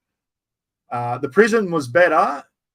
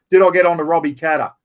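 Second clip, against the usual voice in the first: excited question; 2 semitones higher, 8 dB louder, faster than usual. Real, not acted. Excited reading of a chat question.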